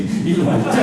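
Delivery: mock porn line through a laugh. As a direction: giggle while repeating it. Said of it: "this is me".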